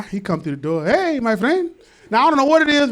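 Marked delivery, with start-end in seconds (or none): 0.9-1.7 put-on Hispanic man's accented greeting. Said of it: "somebody have accent that's not like yours".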